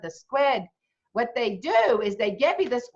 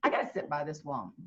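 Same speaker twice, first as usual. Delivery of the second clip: inner groan; 8 semitones lower, 7 dB quieter than usual. Retold or imitated. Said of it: "And I thought".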